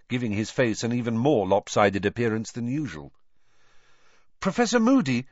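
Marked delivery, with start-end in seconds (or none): 4.4-5.3 Harry calls out over the crowd, high and a bit louder; calling out. A narrator's reading. Boy calling to a teacher through the crowd, calling out. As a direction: call his name across a busy corridor. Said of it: "Harry called".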